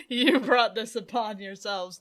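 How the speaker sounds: light cartoon character voice; a touch cartoonish, slowed. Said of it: "Now I'm just gonna talk like this".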